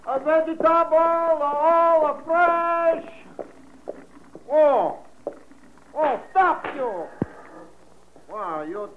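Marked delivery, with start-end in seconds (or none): 0.1-3.0 long, drawn-out, high call to the street; street vendor cry. Acted. Vendor crying his wares. 4.5-7.1 high yell to stop the horse; shouting at horse. Acted.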